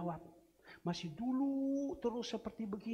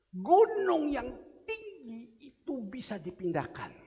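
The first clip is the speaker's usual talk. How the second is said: proclaiming; 5 semitones higher, 6 dB louder than usual. Real, not acted. Preacher proclaims the mountain verse.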